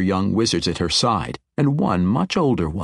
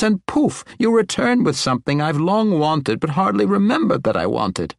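high, tumbling jumble of excited words; animated old wizard; 6 semitones higher than usual. Acted. Old wizard marvels at the long-wanted gem, animated and rambling. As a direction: ramble excitably, pitch climbing as you go. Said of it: "Kipper's animated state".

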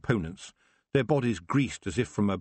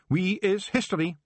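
proud Feegle; 10 semitones higher than usual. Acted. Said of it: "said Rob proudly".

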